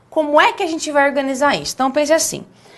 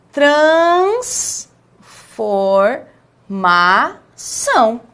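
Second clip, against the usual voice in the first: "transformação" as "trans, for, ma, ção", each stretched with pauses; syllable by syllable; much slower than usual. Shown as a demonstration. Teacher shows the correct syllables, each one separate and drawn out. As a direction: sound out every syllable of "transformação" clearly and very slowly. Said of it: "A sílaba é".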